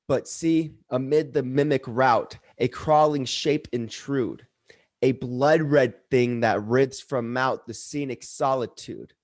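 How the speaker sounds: measured, dramatic verse reading with deliberate pauses; poem recitation. Acted. Reciting The Conqueror Worm at an open mic, dramatic poetry reading. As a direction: recite it like dark Gothic verse.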